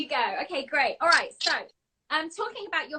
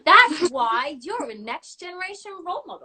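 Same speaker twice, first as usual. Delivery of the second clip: laughing praise; 4 semitones higher, 7 dB louder than usual. Real, not acted. Praising guest while laughing.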